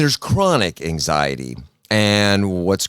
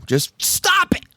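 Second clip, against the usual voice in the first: drawn-out, raised STOP IT; emphatic stop; slower than usual. Retold or imitated. Psychiatrist advising buried-alive patient, emphatic raised command. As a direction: lean hard and slow on the command. Retold advice, milder repeat of shout.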